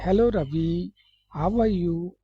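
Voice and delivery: hello Ravi rising, how are you lilting up and down; sing-song English tune. Shown as a demonstration. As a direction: sing the greeting with a rising lilt. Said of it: "जैसे मैं गा के बोल रहा हूँ".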